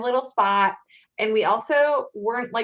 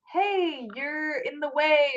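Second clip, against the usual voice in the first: high, lightly put-on gentle voice; imitated polite request; 6 semitones higher, slower than usual. Cosplayer modelling what the cop could say, mock gentle. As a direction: offer it high and easy, drawn out.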